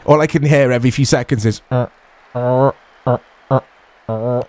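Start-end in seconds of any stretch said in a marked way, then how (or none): 1.7-4.4 short creaky grunts mimicking a squeaking chair; squeaky chair impression. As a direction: croak out each squeak like an old chair. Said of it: "That was my impression of a squeaky chair".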